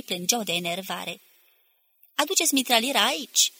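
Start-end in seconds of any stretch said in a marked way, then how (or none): 2.1-3.5 raised, higher commanding call; shouted order. A narrator's reading. Section chief to his men under fire, shouting an order. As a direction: call out an urgent order, moderately loud. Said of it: "strigă șeful secțiunii".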